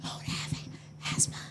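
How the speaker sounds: acted gasping, barely any voice; out of breath. Winded runner answering her teammates, mock breathless gasps. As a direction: imitate being too winded to talk. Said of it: "I couldn't even talk".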